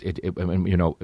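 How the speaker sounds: normal talking voice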